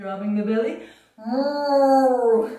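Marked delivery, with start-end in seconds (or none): 1.2-2.5 cat meow. Pretend. Cat-cow pose.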